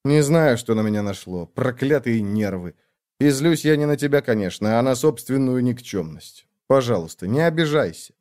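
mild soothing murmur; soothing apology. Acted. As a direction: hold her and calm her. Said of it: "зашептал успокаивающе".

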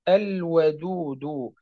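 الودود very slowly, lam sounded clearly before the و; clear lam demo. Shown as a demonstration. Teacher demonstrating the clear lam before waw, very slow. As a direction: draw out الودود, keeping the lam distinct. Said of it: "واضح؟".

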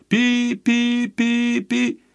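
high, slow beeps of a dead line; dial tone beeps. Acted. Line goes dead after the call, high slow beeps. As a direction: imitate the phone's busy tone.

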